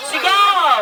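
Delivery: drawn-out call to shout; shouted cue. Shown as a demonstration. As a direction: cue the crowd to yell. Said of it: "diretso sila sigaw". (pasigaw na hudyat)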